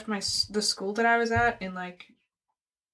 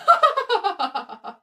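deadpan laugh; 8 semitones higher than usual. Shown as a demonstration. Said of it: "I can also laugh without smiling".

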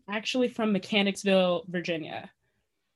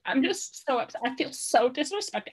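higher-pitched imitation of an upset contestant; mock upset, pitched up; mock meltdown; 4 semitones higher than usual. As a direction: lightly mimic someone having an emotional meltdown. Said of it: "having an emotional fucking meltdown".

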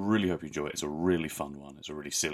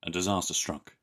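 mock dramatic; 3 semitones higher, 4 dB louder than usual. Mock dramatic story opening.

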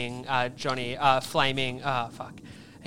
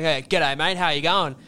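laconic outback drawl; 2 semitones higher, 3 dB louder than usual. Retold or imitated. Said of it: "change your whole cadence of talking".

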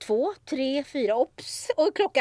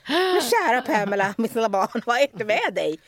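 louder, mock-motherly concern; mock tender; 5 dB louder than usual. Colleague cooing at dizzy Pamela, mock-motherly concern. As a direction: coo at her like a child.

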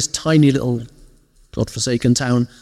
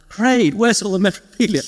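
retold eager question; 7 semitones higher than usual.

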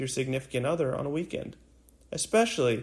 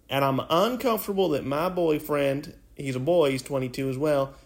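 put-on Southern accent. A podcast host reads the listener's post in a light Southern accent. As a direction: read the post in a mild Southern twang. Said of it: "A Southern accent".

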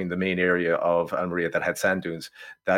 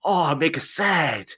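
high mock-sorrowful whining; mocking whine; 9 semitones higher, 3 dB louder, slower than usual. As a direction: lament war like a sulking child. Mocking anti-war film sentiment.

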